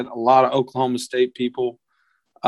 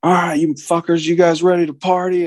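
higher-pitched take on a raspy party host; raspy bar owner; 5 semitones higher than usual. Retold or imitated. Bar owner on stage rallying the crowd, imitated raspy voice. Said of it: "kind of a deep, raspy voice".

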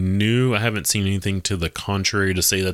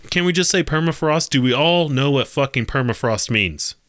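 high, exasperated outburst at the article; fed up with the wordy article, pitch jumps; exasperated rant; 6 semitones higher than usual. Real, not acted. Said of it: "but I'm getting frustrated".

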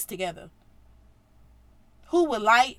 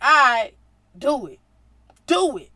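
louder, cocky go-ahead; cocky dare; 9 dB louder than usual. Retold or imitated. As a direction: dare them calmly. Jesus daring them again.

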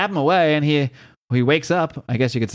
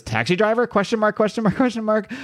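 quizzical; 8 semitones higher than usual. Acted. Reading out note with question marks.

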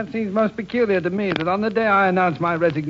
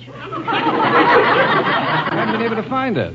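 laughing; 6 semitones higher, much slower than usual. Real, not acted. Jim laughing at rehearsal confusion.

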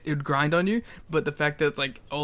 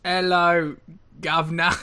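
mock British; 3 semitones higher, 4 dB louder than usual. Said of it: "Oh, you're British".

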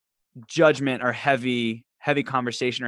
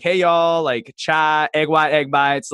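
louder Southern country twang; country accent; 3 semitones higher, 5 dB louder, slower than usual. Retold or imitated. Newcomer to Charlotte greeting people, country Southern accent. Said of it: "You sound so country".

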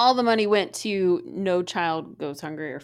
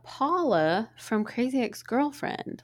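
excited surprise; 6 semitones higher than usual. Retold or imitated. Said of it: "So I was like".

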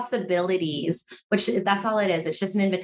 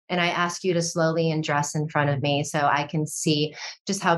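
lower, even, unhurried fantasy voice; intimate storytelling; 3 semitones lower than usual. Pretend. Coach demonstrating a shared fantasy to a partner, intimate and low-key. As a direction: lead your partner gently into an imagined scene.

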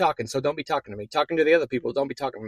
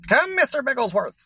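Dr. Evil impression; 6 semitones higher, 5 dB louder than usual. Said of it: "Mini-Me".

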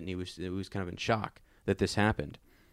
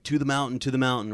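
lightly raised, higher-pitched rallying call; mild calling out; 4 semitones higher, faster than usual. Acted. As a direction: call them to the mountain without fully shouting. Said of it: "Bard's calling".

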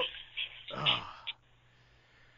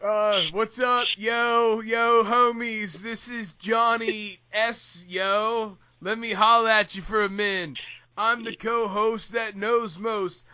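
lightly voiced, drawn-out homeboy greeting; slow, lazy hype-man parody of a friend; mock co-host intro; slower than usual. Host parodies the co-host's usual intro, slow teasing imitation. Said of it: "you have never heard me talk like that".

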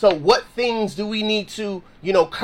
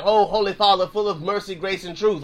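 mock formal prayer; 2 semitones lower than usual. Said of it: "we don't have to pray like that".

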